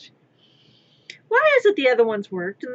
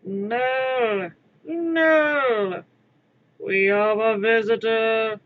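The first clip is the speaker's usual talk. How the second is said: louder, crying shout into an announcement; quoted cartoon yell; 5 dB louder, much slower than usual. Quoting DBZ Abridged, a frightened loud announcement. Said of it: "quoting D B Z abridged".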